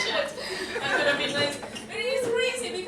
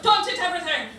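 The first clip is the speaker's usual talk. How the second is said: mock scolding shout; 4 dB louder than usual.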